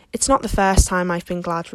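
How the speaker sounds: a brisk, mild retort. Acted. Marilla snaps back at Matthew in the hall, mild tart retort. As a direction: toss it straight back at him. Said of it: "retorted Marilla".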